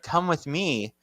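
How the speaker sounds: lightly voiced horror-villain growl; a hint of Freddy Krueger menace. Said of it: "She sounded more like Freddy".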